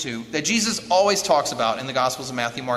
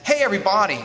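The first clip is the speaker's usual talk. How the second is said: lightly raised, punchy announcement; mock proclamation; 3 semitones higher than usual. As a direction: announce it to everyone, half in jest. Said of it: "where Jesus says".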